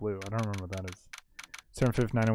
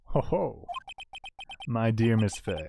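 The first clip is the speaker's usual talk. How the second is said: a lightly voiced polite killer; menacing villain. Villain bids the lawyer farewell, lightly menacing.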